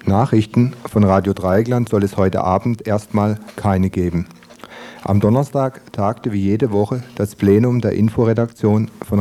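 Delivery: measured radio newsreader delivery; news read. Acted. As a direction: read it out as a scripted bulletin, phrase by phrase. (im Nachrichtenton vorgelesen)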